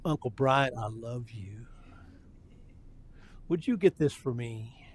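soft, low coaxing voice; butter him up gently, mock-sweet; sweet-talking niece. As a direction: lightly imitate a niece sweetly wheedling her uncle. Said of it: "she bats her eyes and she says".

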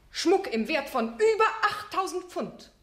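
high, slow, mocking laugh on the sum; sarcastic scoff. Defence lawyer mocks the prosecution's theory, sarcastic laugh. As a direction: ridicule the idea with a laughing sneer.

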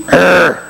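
short, frustrated growl of a groan; exasperated groan. Acted. Grown child fed up with helping aging parents, exasperated groan.

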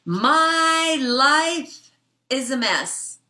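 overdone gloomy fly; despairing fly. Acted. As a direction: wail it like a hopeless little bug. Fly's despairing line.

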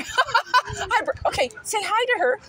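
trying an impression. Shown as a demonstration. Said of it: "let me see if I can".

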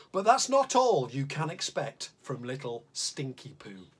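lively, bouncy storytelling rhythm; reading a poem to children. Acted. Teacher reads the tummy troll poem to the class, playfully. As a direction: read a silly bedtime poem aloud to the kids.

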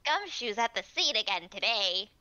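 lightly put-on cop voice; a hint of a game cop character. Playing the cop at the precinct, character voice. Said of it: "this voice that you're doing".

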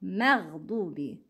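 Maghdubi starting with a thin front "ma"; light sound. Shown as a demonstration. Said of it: "It's ma". (Maghdubi with first vowel like mae)

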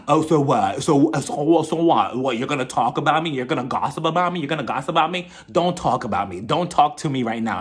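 mild mock of a catty voice; lightly voiced sneering imitation; a hint of a mocking tone; mocking Meredith. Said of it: "she started mocking the way Meredith talks".

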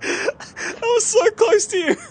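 excited. Real, not acted. Near miss in game.

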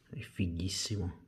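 hushed excited whisper. Real, not acted. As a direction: whisper it in awe. Excited aside about numbered knife.

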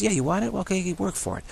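hammed-up dad laying down terms; tough dad. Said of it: "but Dad says".

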